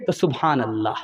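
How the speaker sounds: a shy, contented aside; daughter's soft reply. Acted. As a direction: daughter telling her mother about in-laws. Daughter answers her mother.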